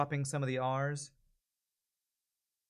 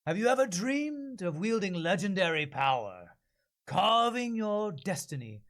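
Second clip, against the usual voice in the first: more heroic; 5 semitones higher, slower than usual. Acted. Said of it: "I want this to be more heroic".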